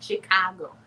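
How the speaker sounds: "Chicago" with the local open "ah" vowel; "Chicago" with an open middle vowel; local Chicago pronunciation. Shown as a demonstration. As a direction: say "Chicago" as Chicagoans do, shi-KAH-go. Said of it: "That's the way to say Chicago".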